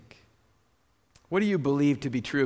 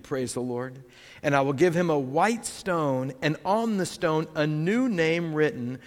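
slow, weighty reading of the verse; solemn preacher's reading; scripture reading. Acted. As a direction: let each promise land slowly. Reads scripture aloud.

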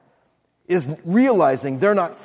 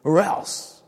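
stern God; 3 semitones higher than usual. Pretend. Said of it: "To think that God's saying".

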